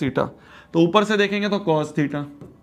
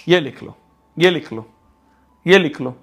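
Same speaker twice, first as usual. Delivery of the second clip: louder each time, firm; firm insistence; 4 semitones lower, 4 dB louder than usual. Real, not acted. Teacher telling students to write the rule, louder each time. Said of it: "teacher insists".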